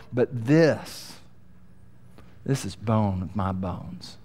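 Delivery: Adam in awe, hushed and marveling; awed, passionate declaration. Retold or imitated. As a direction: speak it as Adam overwhelmed seeing Eve. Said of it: "filled with passion. It's filled with amazement".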